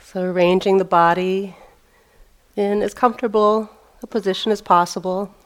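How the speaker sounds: measured meditation-teacher voice with long pauses; phrase by phrase, leaving space between instructions; guided meditation. Real, not acted. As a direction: guide them into the sitting posture, unhurried. Leads a seated meditation.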